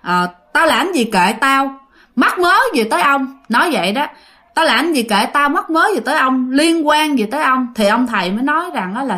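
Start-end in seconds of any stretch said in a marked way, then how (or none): 0.5-3.4 imitating a brash, defiant spirit; retold brazen back-talk, slightly raised; brash defiance. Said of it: "nói chuyện ra cũng mạnh bạo". 4.5-7.7 imitating a brash, defiant spirit; retold brazen back-talk, slightly raised; brash defiance. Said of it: "nói chuyện ra cũng mạnh bạo".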